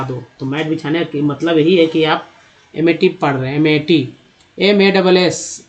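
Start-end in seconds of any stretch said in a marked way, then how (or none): 4.6-5.7 slow, deliberate letter-by-letter spelling; spelled out letter by letter. Shown as a demonstration. Teacher spelling a word for students, slowly letter by letter. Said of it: "मास".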